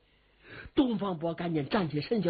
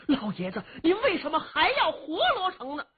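追问的语气; 10 semitones higher than usual. Acted. 东方伯 questions the old prince.

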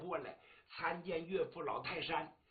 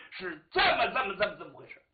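hesitant stammer; 3 semitones higher, 8 dB louder, faster than usual. Acted. Daughter stammers out a confession.

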